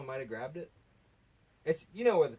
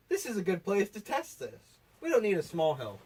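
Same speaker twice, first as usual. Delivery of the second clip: retold bold decision; 6 semitones higher, 5 dB louder than usual. Acting out the boys' reckless decision.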